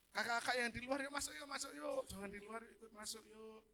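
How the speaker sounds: beckoning. Retold or imitated. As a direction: coax people outside to come in. Beckoning helpers to come inside. (mengajak masuk dengan nada tinggi)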